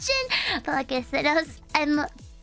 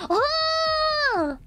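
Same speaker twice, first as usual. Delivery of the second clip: loud exclaim; 8 semitones higher than usual. Retold or imitated. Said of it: "of course I'm very loud".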